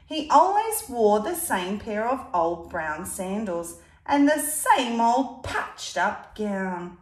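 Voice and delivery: put-on lively read-aloud to a child; storybook reading voice; story narration. A narrator's reading. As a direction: tell it like a picture book. Reading picture book aloud.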